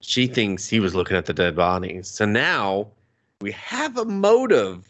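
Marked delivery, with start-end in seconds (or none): 3.4-4.9 high, laughing sarcastic reveal; laughing through it. Real, not acted. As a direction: giggle out the punchline.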